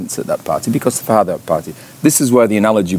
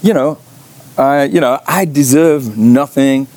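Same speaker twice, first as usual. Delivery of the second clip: humble pleading son; 5 semitones higher than usual. Retold or imitated. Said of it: "He says".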